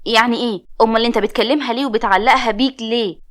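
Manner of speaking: a loud, sharp demand for an answer; angry retort. Acted. Narrator confronts her cousin about leading her friend on, angry. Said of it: "رديت عليه بعصبية".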